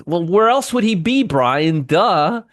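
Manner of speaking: high-pitched, incredulous teasing; teasing sarcasm. Real, not acted. Host ribs Brian about dog under desk, mock incredulous. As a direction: tease him for stating the obvious.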